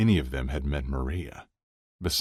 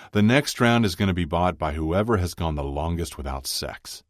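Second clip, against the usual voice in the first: a touch louder, announcing the rule; lightly voiced hearty friend; 3 semitones higher, 4 dB louder than usual. Chuck sets the rules for the round, lightly hearty. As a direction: declare it to the table, lightly in character.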